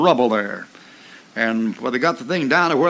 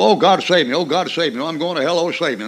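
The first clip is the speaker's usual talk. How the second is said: 1 mock desperate sinner.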